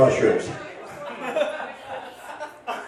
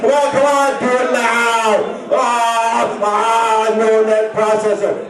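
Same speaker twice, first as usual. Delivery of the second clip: yelling movie quotes; 5 semitones higher, much slower than usual. Retold or imitated. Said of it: "start yelling every reference from every Arnold Schwarzenegger movie".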